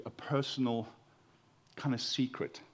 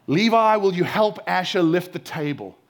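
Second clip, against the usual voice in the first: raised, high opening on the name; calling out to son; 3 semitones higher, 8 dB louder than usual. Acted. Father asking his son to lift a table, calling out loudly. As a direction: summon a kid to come and help.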